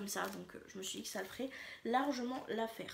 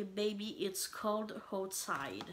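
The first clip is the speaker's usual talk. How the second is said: slow, drawn-out English phrase in a French accent; self-mocking attempt at an English accent; much slower than usual. Shown as a demonstration. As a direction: read the English slogan slowly, trying an English accent. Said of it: "Voilà, mon accent anglais".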